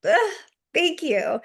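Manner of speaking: high, moved sigh of relief; touched mom. Retold or imitated. Mom to apologizing son, high and moved. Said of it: "And I'm like".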